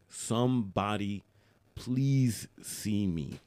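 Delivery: Somebody please see me drawn out very slowly with long pauses; slow pleading. Retold or imitated. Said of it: "You're screaming".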